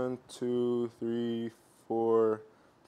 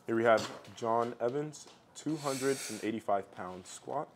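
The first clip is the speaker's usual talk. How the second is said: quiet, measured recording voice; hushed coach commentary; 3 semitones lower, 7 dB quieter than usual. Acted. Coach filming an athlete's squat, hushed commentary. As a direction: narrate the lift softly so the athlete stays focused. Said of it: "I use his voice, like, I hear coaches".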